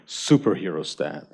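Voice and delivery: half-laughing pose cue; laughing call-out. Shown as a demonstration. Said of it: "so I'm gonna do the dance".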